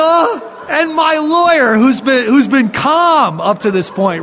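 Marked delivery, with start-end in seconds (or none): 0.0-0.5 put-on drunken tongue flap. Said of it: "my tongue is slapping back and forth".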